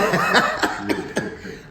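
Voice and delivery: real laugh at his own confession; amused laugh. Real, not acted. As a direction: laugh heartily at your own admission.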